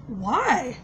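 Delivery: quiet, even-toned question; calm why. Retold or imitated. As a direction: ask it calmly, in shock. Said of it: "Just like that, real calmly".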